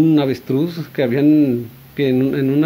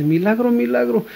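joyful crying out; 3 semitones higher than usual. Retold or imitated. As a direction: shout the miracle in tearful joy. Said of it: "lloraba y lloraba de felicidad".

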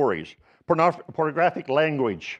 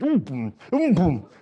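mock effort grunts while pushing; straining grunts. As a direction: grunt like you're shoving a heavy freezer. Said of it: "each one of us had the same language".

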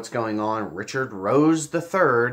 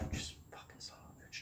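muttered curse; 21 dB quieter than usual. Real, not acted. Swearing under his breath.

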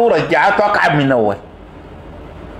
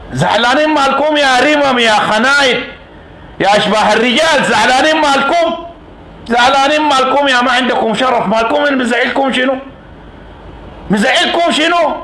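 scornful taunt; 4 semitones higher than usual. Real, not acted. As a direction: jeer at them, rising with contempt. Taunting angry opponents. (سخرية غاضبة بصوت أعلى)

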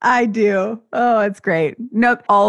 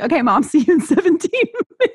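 put-on kid voice; 9 semitones higher than usual. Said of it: "And they're like".

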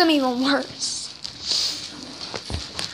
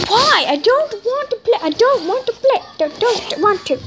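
higher whining voice; whiny kid voice; 5 semitones higher than usual. Acted. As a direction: whine like a sulky kid. Whining to the dog.

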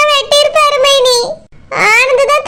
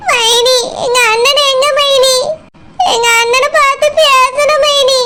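tearful plea. Acted. Sister-in-law arrives in tears.

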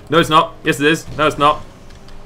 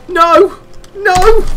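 loud, high scream of despair; 5 dB louder than usual. Real, not acted. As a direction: let it all out in a full scream. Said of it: "but this needs scream".

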